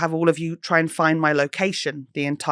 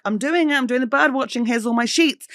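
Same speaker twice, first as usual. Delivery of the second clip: excited; 7 semitones higher than usual. Retold or imitated. Calling out to hotel staff.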